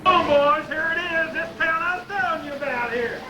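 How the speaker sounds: proud country pa showing off the big town; Pa bragging to his backward boys; hillbilly Pa. Acted.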